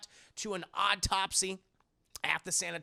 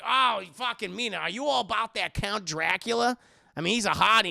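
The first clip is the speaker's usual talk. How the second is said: loud, high, giddy teasing; loud teasing gush; 3 semitones higher, 7 dB louder than usual. Retold or imitated. Lucy teases Mina about the Count, loud and giddy. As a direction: tease your friend about her crush.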